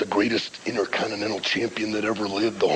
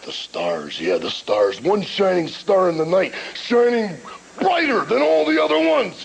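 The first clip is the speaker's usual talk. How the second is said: Macho Man rant. Retold or imitated. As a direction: ramble like a hyped-up wrestler. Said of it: "Macho Man's greatest rant of all time".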